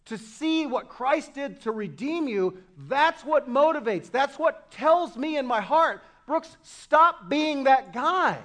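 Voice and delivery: emphatic preaching. Real, not acted. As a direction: build to a loud, drawn-out self-rebuke.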